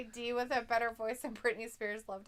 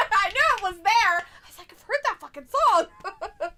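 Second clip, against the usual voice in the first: laughing; 7 semitones higher, 7 dB louder than usual. Real, not acted. Laughing as recalled thought.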